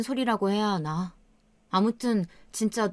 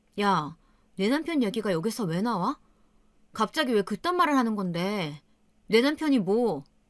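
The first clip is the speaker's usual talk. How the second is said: normal talking voice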